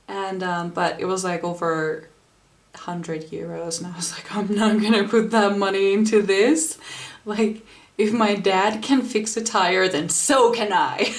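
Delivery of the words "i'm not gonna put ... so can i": louder, self-assured resolve; retold stubborn can-do; determined. Recounting a refusal to pay for repairs, determined. Retelling own defiant resolve about tyre.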